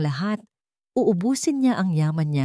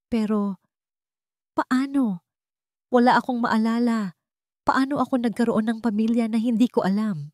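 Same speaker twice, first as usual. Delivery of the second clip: acted disbelief; 5 semitones higher than usual. A narrator's reading. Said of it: "Umaarte ng pagtanggi".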